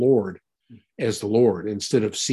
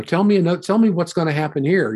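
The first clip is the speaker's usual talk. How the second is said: eager customer; 6 semitones higher, faster than usual. Retold or imitated. Paying customers asking the fortune teller.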